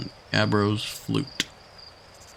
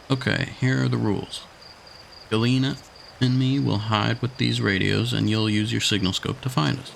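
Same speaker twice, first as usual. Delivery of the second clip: a hint of a bossy child, a bit higher; lightly voiced kid; 3 semitones higher than usual. A kid explaining hide and seek, lightly higher. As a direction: lay out the rules like a kid.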